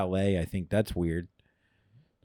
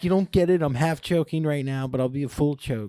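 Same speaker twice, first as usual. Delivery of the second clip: exasperated; 6 semitones higher than usual. Retold or imitated. Exasperated reply to stranger.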